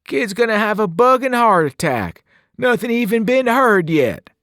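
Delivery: playful Brit cutting in on his friend; thick British accent. Acted. Newt teases Albie about the tour, thick British accent. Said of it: "his voice thick with an odd accent".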